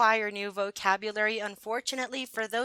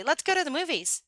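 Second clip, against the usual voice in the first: American English model phrase; 6 semitones higher than usual. Shown as a demonstration. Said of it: "In America, we would say".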